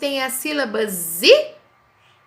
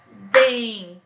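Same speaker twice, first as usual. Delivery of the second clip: dentadura said syllable by syllable; syllables clapped. Shown as a demonstration. Teacher claps out dentadura for pupils. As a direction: clap out den-ta-du-ra. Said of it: "eu falei pausadamente".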